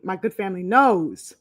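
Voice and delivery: talking while chewing gum. Real, not acted. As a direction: chew gum as you speak. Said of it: "hold on, I'm chewing gum".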